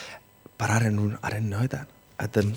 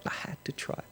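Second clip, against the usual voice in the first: near-whisper, much softer; hushed repeat; 13 dB quieter, faster than usual. Real, not acted. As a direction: let it sink in with a hushed echo. Softly repeats it for emphasis.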